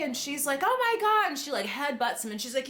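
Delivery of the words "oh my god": high-pitched imitated outrage; mock pissed-off. She has just fallen off the scooter, mock pissed-off. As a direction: exclaim it, playing super pissed. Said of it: "she's, like, super pissed".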